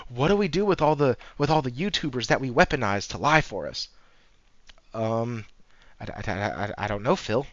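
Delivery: panicked exec. Retold or imitated. Panicked execs imitated.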